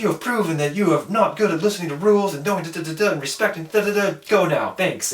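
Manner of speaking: high-pitched, sing-song mock scolding; imitating mad recruiter. Recruiter dismissing the recruit for breaking rules, mock mad. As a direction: rattle off an official's indignant dismissal, hammed-up. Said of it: "Now he's mad".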